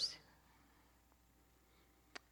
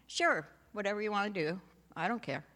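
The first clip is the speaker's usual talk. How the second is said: sarcastic brush-off; 3 semitones higher, faster than usual. Retold or imitated. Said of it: "I'm a very sarcastic girl".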